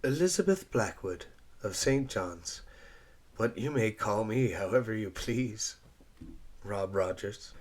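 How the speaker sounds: a hint of a bashful young woman; shy reply. Eliza answering Rob's introduction, shyly.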